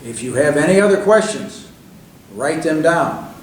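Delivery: emphatic, mildly stern instruction. Retold or imitated. Reg ending a phone call with advice, stern. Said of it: "in a very stern voice".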